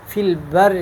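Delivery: البر with a light, held R; thin doubled ra. Shown as a demonstration. Teacher contrasting two readings for students, thin ra. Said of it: "یہ باریک ہے".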